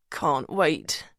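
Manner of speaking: strained, understated reply; through gritted teeth. A narrator's reading. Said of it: "Julian manages through gritted teeth".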